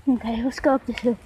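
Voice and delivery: breathing heavy after a climb; panting between words. Real, not acted. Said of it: "Sorry if I'm breathing really heavy".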